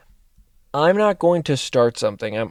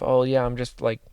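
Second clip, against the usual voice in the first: mock freak-out. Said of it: "the idea and the thought of".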